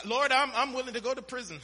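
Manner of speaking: high-pitched, lightly mocking eager vow; mock boasting. Preacher mimics believers boasting to the Lord, mock eagerness. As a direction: pledge it too eagerly, as a joke. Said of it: "we, we boast".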